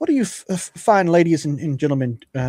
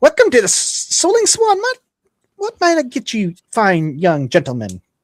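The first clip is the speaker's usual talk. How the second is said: cheerful, jovial, sing-song little lady voice; 8 semitones higher, 3 dB louder than usual. Game narrator voicing a halfling woman welcoming guests, in a jovial halfling voice. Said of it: "this jovial and somewhat little plump lady uh, halfling".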